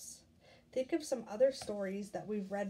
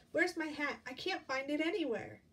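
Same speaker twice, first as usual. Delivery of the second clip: chick voice; 5 semitones higher, 4 dB louder than usual. Acted. Teacher voices chick's speech bubble.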